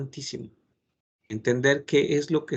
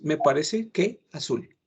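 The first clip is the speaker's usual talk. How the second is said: unsure answer. Shown as a demonstration. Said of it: "Si no tienen la seguridad".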